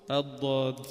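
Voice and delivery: ض sung out long and low; demonstrated letter. Shown as a demonstration. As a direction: say الضاد from the tongue edges, drawn out. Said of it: "حرف". (الضاد بصوت ممدود)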